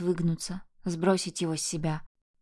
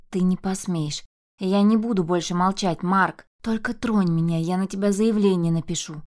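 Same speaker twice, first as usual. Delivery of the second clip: firm, louder warning; 4 dB louder than usual. Acted. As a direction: stand your ground and threaten. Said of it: "предупреждающе выставила она". (твёрдо, с вызовом)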